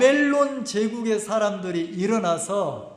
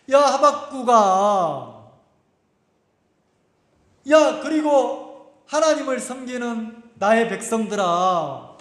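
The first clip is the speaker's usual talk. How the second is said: God calling His people; slower than usual. Acted. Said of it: "하나님이 이제 말씀하시는 거예요".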